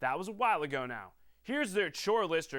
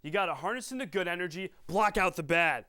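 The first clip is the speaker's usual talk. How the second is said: lightly voiced movie coach. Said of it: "that Happy Gilmore quote".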